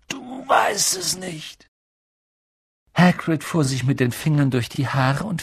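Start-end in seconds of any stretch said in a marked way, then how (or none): 0.1-1.7 high, slow cry of disbelief; aghast. A narrator's reading. Giant grasps that the boy knows nothing, aghast. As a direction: stretch it out high in dismay.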